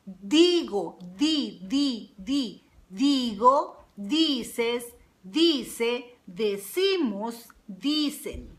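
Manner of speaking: careful, separated words with the D of "Digo" clearly shown; pronunciation demo. Shown as a demonstration. Teacher showing students how to pronounce the D in "Digo", careful pronunciation demo. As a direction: sound out the D in "Digo", "di", "dices", word by word. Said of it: "how I pronounce the D".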